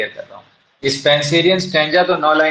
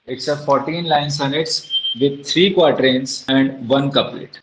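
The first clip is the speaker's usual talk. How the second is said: very slow, word by word, so students can write it down; drawn out for note-taking; slow dictation; much slower than usual. Shown as a demonstration. Teacher dictating a definition to the class, very slow. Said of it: "तो आप इसमें लिख देंगे".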